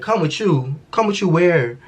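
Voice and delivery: can't believe she's being told to come along; incredulous. Retold or imitated. To the guard ordering her back, high incredulous questions.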